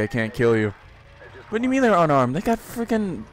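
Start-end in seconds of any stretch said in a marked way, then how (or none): 1.5-3.2 higher-pitched sarcastic disbelief. Acted. Gamer arguing with the game that they have bombs, sarcastic. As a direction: question it with mock outrage. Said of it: "I'm being sarcastic".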